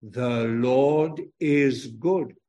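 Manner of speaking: slow, word by word, leaning on good; slow recitation again. Shown as a demonstration. Preacher repeating the line slowly with children. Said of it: "Say it again".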